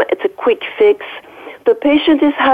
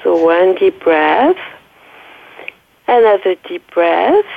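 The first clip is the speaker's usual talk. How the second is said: slow, drawn-out instruction, rising at the end; guided breathing; 2 semitones lower than usual. Shown as a demonstration. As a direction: lead a listener gently through each breath. Guiding the host through deep breaths.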